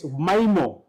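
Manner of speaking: mimo with a long I, as "MY-mo"; first syllable of mimo like "my". Shown as a demonstration. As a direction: say mimo to rhyme with "lime-o". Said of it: "How do you say that?".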